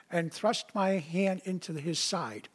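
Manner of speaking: hushed mock-Thomas whisper; whispered doubt. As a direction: drop to a whisper on the demand. Thomas voicing his doubt.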